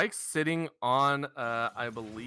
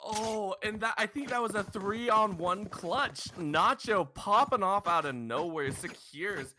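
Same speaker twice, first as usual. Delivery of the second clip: esports caster; 6 semitones higher than usual. Real, not acted. Caster still riding clutch excitement.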